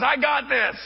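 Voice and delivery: loud, high, laughing declaration; excited. Retold or imitated. Pastor telling the cashier he will pay, laughing excitedly. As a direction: announce it with a delighted laugh. Pastor paying stranger's bill.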